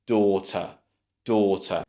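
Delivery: "daughter" as DAW-tuh; British "daughter", falling; correct daughter. Shown as a demonstration. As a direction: model "daughter" with door vowel and schwa. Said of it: "first syllable as".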